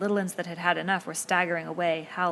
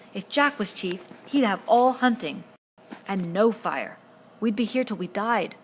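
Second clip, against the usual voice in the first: rising to a squeak, louder; squeaky rise; 3 semitones higher, 6 dB louder than usual. A narrator's reading. Piggy frets to Ralph, voice climbing. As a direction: let the voice climb in fear. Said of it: "His voice ran up to a squeak".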